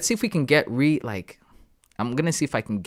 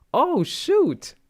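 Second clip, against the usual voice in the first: much higher, louder startled cry; sudden surprise; 4 dB louder than usual. Real, not acted. Streamer spotting a chart move, startled high cry. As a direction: jolt up in sudden realization. Realizes price tapped zone.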